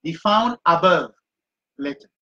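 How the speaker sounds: slow, deliberate "Be found above" with "found" stressed; teacher dictating notes to students; slow dictation. Shown as a demonstration. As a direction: dictate each word slowly for note-taking.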